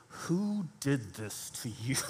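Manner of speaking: quiet, slow, low growling question; low menacing parent's question. Retold or imitated. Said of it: "growl the question a little bit".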